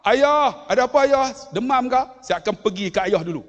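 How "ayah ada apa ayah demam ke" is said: worried son. Retold or imitated. Worried son hurrying to father.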